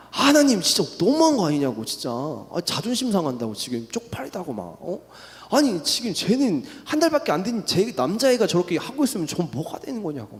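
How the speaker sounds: half-acted fit of temper at God; retold angry outburst. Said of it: "하나님한테 열을 높이며 막 화를 냈단".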